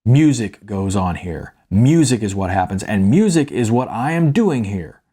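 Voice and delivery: lightly voiced disappointed father; dad scolding his grown son; stern father's lecture.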